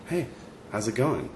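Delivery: soft, unhurried, sincere hello; genuine salutation. Retold or imitated. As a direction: imitate a stranger who quietly means it, pausing after "Hey". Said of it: "he wanted to give me this salutation".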